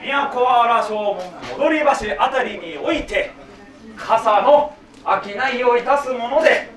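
slow, stately archaic declamation; formal kyogen recitation. Acted. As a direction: proclaim like a stage samurai. Clown's formal self-introduction.

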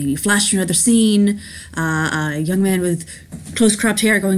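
ordinary delivery

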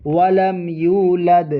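slow, melodic recitation of the verse; Quran recitation. Shown as a demonstration. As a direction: draw out each word in tajweed. (ধীর সুরেলা তিলাওয়াত)

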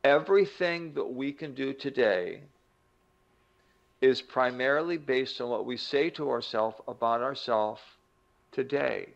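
slow, deliberate key statement; really slow. Shown as a demonstration. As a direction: say it carefully, pausing between phrases. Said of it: "I'll say it really slowly".

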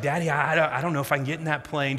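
hurried, stammering imitation of a worried kid; lightly voiced anxious daughter; nervous child. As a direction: stumble over the words with mild mock worry. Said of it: "she's really starting to get nervous".

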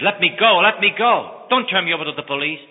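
high, loud, frantic begging; panicked pleading. Acted. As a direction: beg to be let go, rushing at the end. Caught pickpocket begs lawyer.

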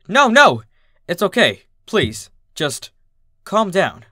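high, loud panicked plea that fades into begging; calm her down before she hits; frightened pleading. Acted. Dad begging angry mom to calm down, panicked plea.

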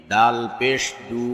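final "দু" cut short; quick short vowel. Shown as a demonstration. Teacher demonstrating normal pesh, short "দু". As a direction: keep the last "দু" brief, not held. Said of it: "তাড়াতাড়ি করতে হয়".

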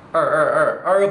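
알 with the tongue strongly curled into an R; forceful curled-tongue 알, repeated; exaggerated retroflex R. Shown as a demonstration. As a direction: hit 알 hard as a retroflex "er". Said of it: "제가 좀 강하게 하긴 했는데".

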